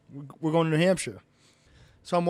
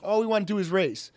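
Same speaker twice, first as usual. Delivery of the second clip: mild retold plea, pitched up; pleading; 4 semitones higher than usual. Suspended driver begs the official to let him race, pleading. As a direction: appeal to him, voice lifted. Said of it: "So I'm pleading with him".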